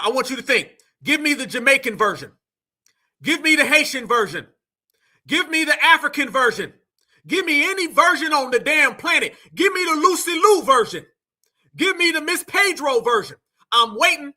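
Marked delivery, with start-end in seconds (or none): 3.6-14.3 challenging shout. Real, not acted. Challenging the audience, raising voice.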